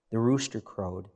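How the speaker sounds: normal talking voice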